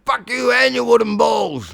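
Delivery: slow, loud, spelled-out insult; repeated taunt. Acted. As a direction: say it again so a deaf ear gets it. Repeats insult to deaf dragon.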